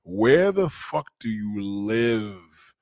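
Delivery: exasperated question with long stretched words; slow, insistent demand; slow, drawn-out question. Real, not acted. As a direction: spell it out slowly, word by word. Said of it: "Let me say it a slower".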